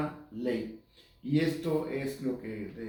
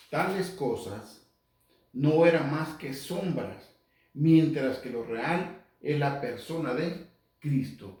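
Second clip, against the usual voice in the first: slow, emphatic scripture reading; lectura bíblica solemne; 5 dB louder, slower than usual. Acted. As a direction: proclaim the verse slowly, phrase by phrase. Lee un versículo en voz alta. (lectura bíblica lenta y enfática)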